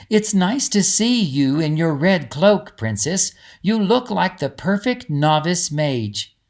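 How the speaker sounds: a hint of an encouraging companion; Greta's voice. Greta speaks to Lizzie.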